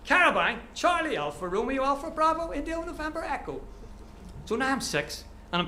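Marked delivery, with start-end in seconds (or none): 0.1-3.6 high, level radio spelling-out; soldier's raised, monotone radio voice. Acted. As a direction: call it in over a military radio. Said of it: "I hear the crackle of the radio".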